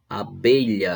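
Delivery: "Abelha" with a strong middle syllable "be"; stress on BE. Shown as a demonstration. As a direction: lean hard on "be" in "Abelha". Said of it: "a sílaba tônica é o B". ("Abelha" com força na sílaba "be")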